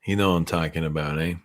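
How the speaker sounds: breathy fast whisper, teasing co-host. Pretend. Teasing his co-host about Remy, in a quick whisper.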